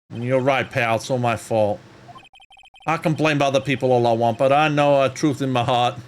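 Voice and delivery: detective voice. Acted. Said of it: "the detective voice ain't coming out right".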